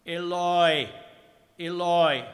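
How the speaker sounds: high, loud, drawn-out cry; long theatrical wail of appeal. A narrator's reading. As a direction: call it out at full voice to heaven. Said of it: "I cried out".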